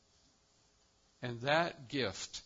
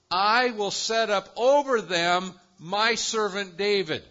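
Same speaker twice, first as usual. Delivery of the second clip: higher and louder, passionate; fired-up preaching; 5 semitones higher, 7 dB louder than usual. Real, not acted. Preacher to congregation, excited and loud. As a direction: let the excitement of the text spill over.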